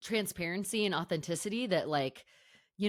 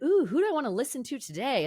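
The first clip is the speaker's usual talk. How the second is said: bright, quick mock browsing voice; picky podcast listener; 6 semitones higher, 4 dB louder, faster than usual. To the guest, mimicking a choosy listener, quick and high. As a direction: play a listener flicking through podcasts. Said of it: "you can go through your phone and be like".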